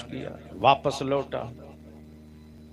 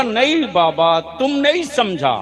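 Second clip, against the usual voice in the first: high excited Bengali dada; protesting loudly in Bengali Hindi; Bengali accent in Hindi; 6 semitones higher, 6 dB louder than usual. Retold or imitated. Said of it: "Bengali दादा".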